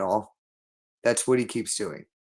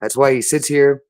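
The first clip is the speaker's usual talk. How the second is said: agitated raised voice; 5 dB louder than usual. Real, not acted. Agitated ranting to Brittany.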